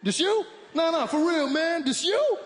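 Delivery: high, loud hyped-up black American "this you?"; black American greeting. Retold or imitated. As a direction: hype him up, shouting with glee. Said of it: "They just walk up to you and be like".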